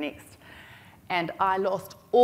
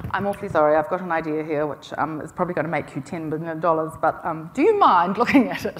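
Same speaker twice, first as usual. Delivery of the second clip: apologetic Kiwi humility; 2 semitones lower, 5 dB louder than usual. Retold or imitated. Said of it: "normally what we do is we go and we say".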